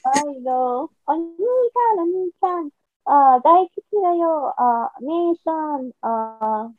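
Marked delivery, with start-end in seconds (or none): 1.0-6.7 put-on high, sweet anime girl voice; cute anime girl. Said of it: "las chicas anime cute".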